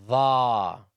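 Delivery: voiced "Dha", tongue tip just showing between the teeth; dha sound. Shown as a demonstration. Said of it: "The tip of the tongue should be visible when you say dha".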